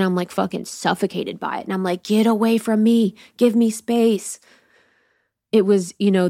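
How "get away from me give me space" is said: raised pitch, stretched-out ending; mild acted plea, slowing on the last words; pleading for space. Woman suffocated by darkness, demanding space.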